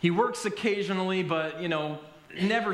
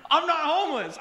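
high, loud echo of disbelief; incredulous repeat; 10 semitones higher, 5 dB louder than usual. Retold or imitated. Repeats the man's line, amazed.

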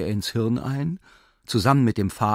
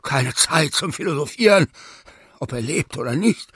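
panting; 5 semitones higher, 4 dB louder than usual. Acted. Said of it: "keuchte der furchtbare Philipp Philippowitsch".

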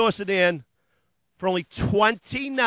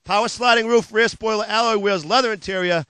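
hard-sell ad read. Acted. Car dealer pitching used cars to TV viewers, hard-sell ad voice. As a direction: sell it like a late-night car ad.

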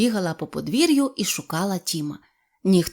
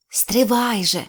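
plain reading voice

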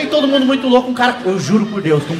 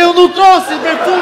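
dopey naive reply; 8 semitones higher, 5 dB louder, slower than usual. Retold or imitated. High-pitched naive reply, drawn out.

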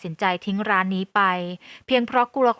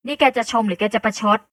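hard-voiced interruption; 4 dB louder than usual. Sister cutting off the compliments, firm and a bit louder. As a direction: cut in firmly, a touch louder. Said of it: "อายพูดขัดฉันขึ้นเสียงแข็ง".

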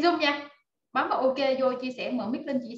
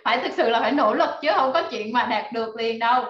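laughing while talking; 5 dB louder than usual. Real, not acted. Laughs while warning audience.

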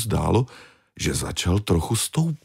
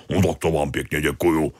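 calling after them; 2 semitones lower than usual. Acted. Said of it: "volal za nimi".

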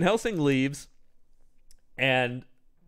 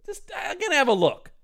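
Arthur hesitating. Retold or imitated. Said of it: "Arthur's like".

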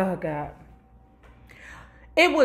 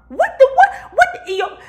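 laughing; 12 semitones higher, 7 dB louder than usual. Real, not acted. Laughs, breaking off his own story.

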